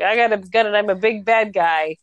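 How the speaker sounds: lightly voiced American tough guy; a hint of storybook villain making threats; big bad guy. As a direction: play a mock American heavy, lightly. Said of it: "I'm gonna do my American accent".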